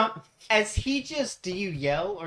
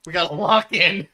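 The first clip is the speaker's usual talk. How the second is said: mock hype; 11 dB louder than usual. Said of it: "you all are like".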